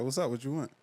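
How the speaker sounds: casual New York greeting; New York accent. Shown as a demonstration. Interviewee code switches to New York on request, light New York accent. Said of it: "so you want New York?".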